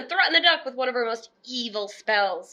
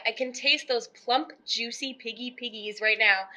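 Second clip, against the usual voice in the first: softer, savoring, lip-smacking; greedy murmur; 6 dB quieter than usual. Acted. Witch imagining her piggy feast, softly savoring. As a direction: relish it under her breath. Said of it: "Gritch said, smacking her lips".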